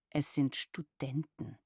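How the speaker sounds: slow, lightly irritated insistence; a touch of exasperation, each word set down. Acted. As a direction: daughter correcting her mother, mildly annoyed. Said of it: "sagte ich gereizt".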